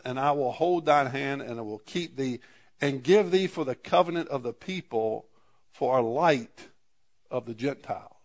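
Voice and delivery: measured, formal reading of the King James verses; scripture reading. Acted. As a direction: read the prophecy aloud to the congregation. Reads Isaiah aloud.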